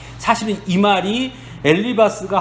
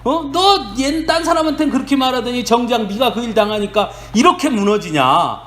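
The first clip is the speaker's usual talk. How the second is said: raised, reproachful scolding of a fallen friend; scolding rebuke; 4 semitones higher than usual. Retold or imitated. Friend Eliphaz rebukes Job, raised scolding voice. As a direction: scold him for not practising what he preached. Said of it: "하면서 욥을 질책합니다".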